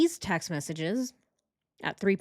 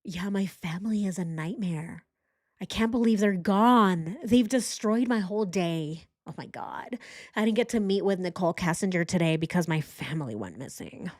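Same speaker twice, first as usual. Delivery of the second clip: mocking impression. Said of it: "That's how he sounds".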